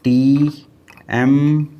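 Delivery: T and M called out loud and spaced; teacher drilling टी and एम as loud separate letters. Shown as a demonstration. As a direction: call out टी and एम separately, loud, like a mnemonic. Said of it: "इसे याद रख लीजिए".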